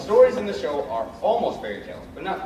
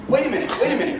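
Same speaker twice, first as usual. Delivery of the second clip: higher, louder stop-the-show call; cried out; 7 semitones higher, 4 dB louder, much faster than usual. Acted. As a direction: cut in loudly to halt the story. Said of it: "cried Jack the narrator".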